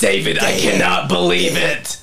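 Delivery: a hint of a camp New York assistant; lightly voiced gushing sidekick; deep Jewish assistant voice. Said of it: "a gay guy with a deep Jewish voice".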